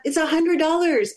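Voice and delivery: high-pitched mock outrage; retold anger. Mother mock mad at her daughter about the ticket's cost. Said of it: "I would have gotten mad".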